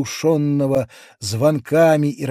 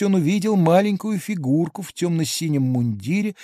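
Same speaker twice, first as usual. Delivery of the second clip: ordinary delivery, nothing marked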